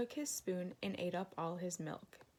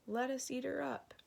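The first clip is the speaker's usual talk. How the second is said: squeaked; 5 semitones higher than usual. A narrator's reading. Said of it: "And Tiny Bear squeaked".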